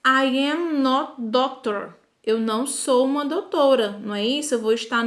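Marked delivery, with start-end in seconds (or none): 0.0-1.9 slow model sentence. Shown as a demonstration. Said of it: "Se eu disser".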